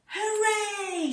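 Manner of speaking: high, loud surprise shout; group shout. Acted. All the rabbits surprising Hoppy, high loud joyful shout. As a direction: burst out cheering all together. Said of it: "shouted all the rabbits".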